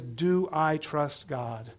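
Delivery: slow, searching question; stress on do. Shown as a demonstration. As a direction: do I trust God, DO said slow and low. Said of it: "First one is".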